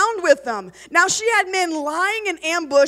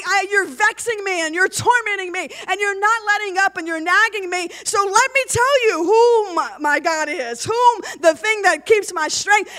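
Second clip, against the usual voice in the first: exasperated Samson; 5 semitones higher than usual. Acted. Samson exasperated, voiced in reading.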